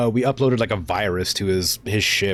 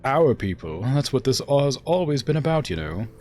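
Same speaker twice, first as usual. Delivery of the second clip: higher, theatrical self-justification; lofty, pitched-up oratory; indignant ruling uncle; 7 semitones higher than usual. Acted. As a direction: defend your rule with wounded grandeur. Acts the uncle's retort.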